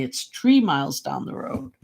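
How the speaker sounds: the father's real version, rising at the end; father's real saying. Retold or imitated. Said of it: "Actually, he'd say".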